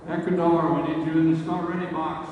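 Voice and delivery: loud announcer call over the range; calling out loudly. Real, not acted. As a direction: call the team to the start box. Announcer calling teams to start.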